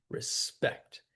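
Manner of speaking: re-SPECT, second syllable strong; stress on last syllable. Shown as a demonstration. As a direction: say "Respect" leaning on "spect". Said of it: "With the stress on the last syllable".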